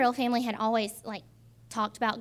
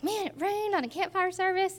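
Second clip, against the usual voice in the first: mock disappointment; 9 semitones higher than usual. Quoting herself, laughing, disappointed.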